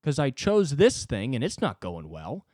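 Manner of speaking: put-on a touch of a young comic losing it; hammed-up young comic despairing; whiny young comic. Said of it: "a twenty-three-year-old going".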